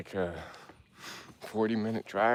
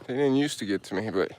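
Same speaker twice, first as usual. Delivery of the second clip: winded on a climb; 5 semitones higher than usual. Real, not acted. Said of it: "I'm out of breath".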